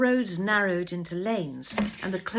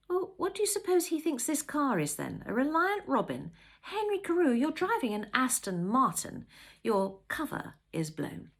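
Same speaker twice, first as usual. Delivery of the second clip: higher-pitched wife's voice, settling at the end; challenging wife; 6 semitones higher than usual. Acted. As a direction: tease husband with mock questions. Wife teasingly challenges her husband.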